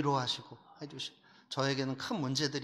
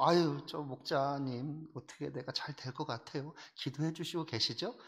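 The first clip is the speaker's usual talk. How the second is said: pleading church member; 5 dB quieter than usual. Retold or imitated. Church member quietly pleading with the group leader for prayer. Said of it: "구역 모임에서".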